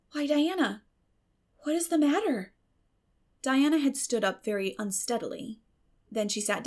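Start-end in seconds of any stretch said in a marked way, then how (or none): 0.1-2.5 higher voice, a touch alarmed; concerned young girl. A narrator's reading. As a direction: ask your friend what's wrong. Anne asks Diana, worried.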